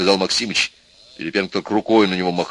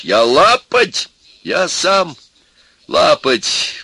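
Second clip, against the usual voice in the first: raised, louder self-accusing outcry; exclaiming; 9 semitones higher, 6 dB louder, much slower than usual. A narrator's reading. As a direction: exclaim it with feeling. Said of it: "воскликнул профессор".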